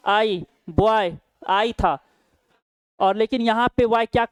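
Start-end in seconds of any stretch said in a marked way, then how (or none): 0.1-1.2 "आई" drawn out, then "बॉय" slowly; slow demonstration of "आई" inside "बॉय"; vowel sound demo. Shown as a demonstration. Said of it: "इसका उच्चारण क्या था".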